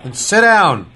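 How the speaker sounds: high, loud commanding shout; angry shout. Acted. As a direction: bark orders to shut him up. Sheriff yells at Randall.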